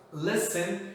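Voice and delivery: listen with the first syllable LI stressed. Shown as a demonstration. Teacher shows where the tonic syllable falls, LI stressed in listen. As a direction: lean on the li of listen. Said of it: "ficou ali no li".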